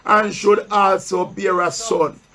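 solemn pulpit Bible reading; scripture reading. Acted. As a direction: read the verse slowly to the church, pausing for answers. Preacher reads scripture aloud.

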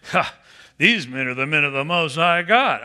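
mock them with scorn; sarcastic mocking. Shown as a demonstration. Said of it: "Or was she going".

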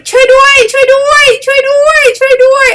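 very high, loud cry for help; the sun calling out desperately. Acted. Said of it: "นั่นคือเสียงของพระอาทิตย์ ร้องขอความช่วยเหลือ".

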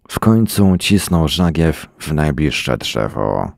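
ordinary delivery, nothing marked

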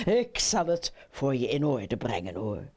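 put-on low-pitched old frog. Old frog promises to arrange it. (lage stem van de oude kikker)

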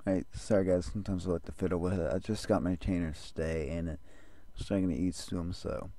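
speech shaped by a retainer; wearing a retainer. Real, not acted. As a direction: talk with retainers in the mouth. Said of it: "you might hear that sometimes".

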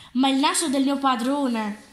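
a touch of horrified surprise; mildly shocked outcry at the market; horrified exclamation. Acted. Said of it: "esclamò inorridita". (esclamazione lievemente inorridita)

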